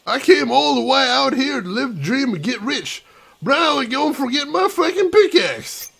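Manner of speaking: gruff Scottish miner voice; thick Scottish brogue; Scottish accent. Acted. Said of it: "this got more Scottish as I was going on".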